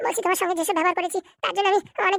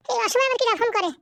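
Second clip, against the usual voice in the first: normal talking voice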